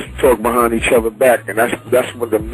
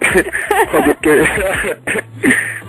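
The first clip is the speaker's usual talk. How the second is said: giggling; 8 semitones higher, much slower than usual. Real, not acted. Laughing, stumbling over title.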